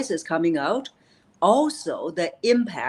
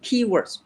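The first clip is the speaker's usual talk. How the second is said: "Key" pushed out higher with extra breath; breathy stress on key; 6 semitones higher than usual. Shown as a demonstration. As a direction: hit "Key" with a burst of air. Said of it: "just like what I demonstrated".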